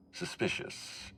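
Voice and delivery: slow hushed whisper. Acted. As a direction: breathe the word out slowly. Overseer voicing suspicion about incident.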